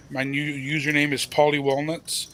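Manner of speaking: "Walnuts" with emphasis on the "nuts" part; stress on Walnuts. Real, not acted. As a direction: lean on the second syllable of "Walnuts". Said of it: "Emphasis on the nuts".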